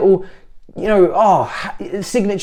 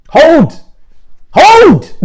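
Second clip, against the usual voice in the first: high, loud one-word bursts; triumphant taunting yell; gloating shout; 13 semitones higher, 8 dB louder than usual. Real, not acted. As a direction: shout it higher the second time. Gloating catchphrase at rivals.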